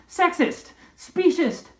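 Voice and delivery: hammed-up feminist outrage; indignant exclamation. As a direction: fling the accusations high and hard. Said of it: "she s-, exclaimed".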